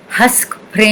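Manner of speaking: Hasak Prem chanted with a nasal ending, mouth left open; mantra demo. Shown as a demonstration. Teacher demonstrating the seed sound, nasal and rising. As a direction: sing out Hasak Prem, letting Prem hum into the nose. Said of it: "Nasal. Goes up".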